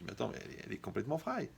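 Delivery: a quiet confiding aside; hushed quote. Retold or imitated. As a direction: lean in and hush the verdict.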